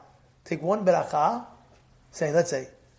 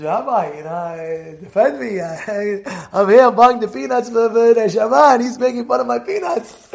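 offended congregant; 3 semitones higher, 6 dB louder than usual. Retold or imitated. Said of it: "He says".

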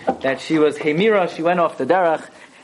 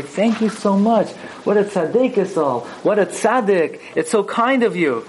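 grateful mother; 4 semitones higher than usual. Retold or imitated. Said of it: "spoke with the tremendous derech eretz".

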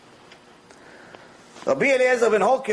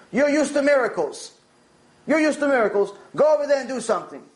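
higher-pitched, insistent retold order; urging; 5 semitones higher than usual. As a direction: press him to go and act.

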